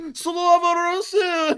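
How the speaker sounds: slow, high, loud mock war cry; battle cry. Russian throwing a grenade into the bush, drawn-out mock battle cry. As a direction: bellow it while lobbing a grenade. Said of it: "pull the pin on a grenade".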